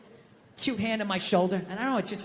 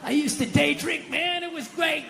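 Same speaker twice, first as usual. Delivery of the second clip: higher, mock-nostalgic old drinker; wistful has-been; 5 semitones higher than usual. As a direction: play a washed-up guy missing the old days. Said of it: "Like watching an old athlete".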